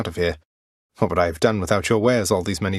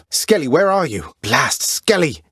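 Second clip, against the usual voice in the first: calling out; 7 semitones higher, 3 dB louder than usual. Acted. Calling out for missing Skelly.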